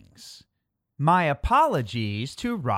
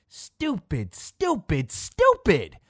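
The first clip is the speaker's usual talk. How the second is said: from muttered to shouted stupid; building insult; 4 semitones higher, slower than usual. Acted. Child character scolds in story.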